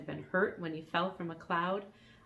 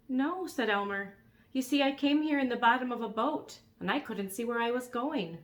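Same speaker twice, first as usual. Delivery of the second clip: put-on young boy voice; 5 semitones higher than usual. Elmer voiced in story.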